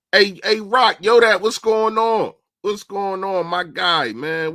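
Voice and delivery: loud happy hey to a regular viewer; excited greeting. Real, not acted. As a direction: shout out a friend who just joined the stream. Greeting a chatter on live stream.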